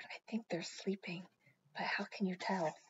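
soft, hushed whisper. A narrator's reading. Amelia Bedelia beside sleeping bags, whispering. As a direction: whisper so as not to wake them. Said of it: "she whispered".

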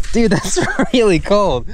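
laughing in the cold. Real, not acted. Laughing in icy water.

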